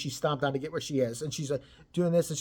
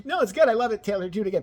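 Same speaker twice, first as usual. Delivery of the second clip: mock gushing friend; 4 semitones higher, 4 dB louder, faster than usual.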